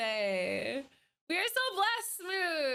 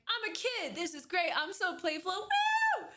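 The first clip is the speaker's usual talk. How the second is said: put-on giddy kid; 5 semitones higher than usual. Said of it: "you're like".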